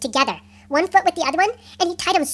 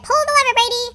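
high, loud captain's command; shouted order; 7 semitones higher, 4 dB louder than usual. A narrator's reading. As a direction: call the order across the deck.

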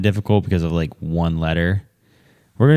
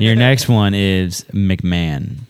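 slow, formal quiz host read; announcer voice; 4 dB louder, slower than usual. Acted. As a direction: announce the word slowly like a spelling bee host. Spelling bee host announcing word.

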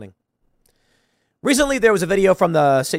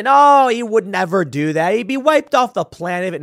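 mock objection; 5 semitones higher, 4 dB louder than usual. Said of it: "many people say".

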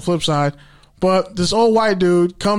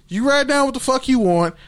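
mock polite; 6 semitones higher than usual. Mock polite customer service reply.

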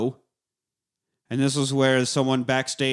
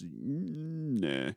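Rocky impression; 12 dB quieter than usual. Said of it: "And he's".

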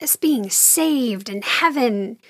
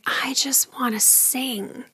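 mock tearful whisper; 6 dB quieter, slower than usual. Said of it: "she was crying".

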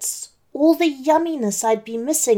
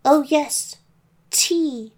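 put-on higher, deflated old lady voice; disappointed granny; 6 semitones higher, slower than usual. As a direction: sound let down but keep the granny act. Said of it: "I said with disappointment".

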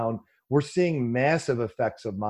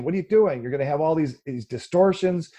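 raised pitch, imitated public outcry; mild mock scream; 4 semitones higher than usual. Imagined public objecting to government price fixing, mild mock scream. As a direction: protest in a higher voice, short of screaming. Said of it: "everybody would scream".

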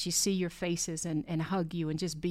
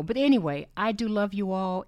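normal talking voice

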